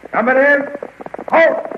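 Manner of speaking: loud, high parade-ground call; shouted command. Acted. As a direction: bark the order across the column. Officer commanding troops to halt.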